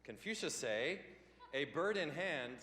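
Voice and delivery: slow mock Chinese-accented punchline; mock Confucius accent. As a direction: deliver like a mock Chinese sage. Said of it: "I will talk like this".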